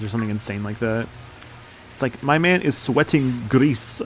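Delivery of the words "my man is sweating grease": lightly put-on voice, slow and drawn-out. Streamer joking about a pizza challenger, slow put-on voice. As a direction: stretch it out in a mildly silly voice. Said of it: "talking in this voice".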